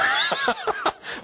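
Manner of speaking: a short amused laugh at his own joke; real amused laugh after the retort. Real, not acted. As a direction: chuckle at the punchline.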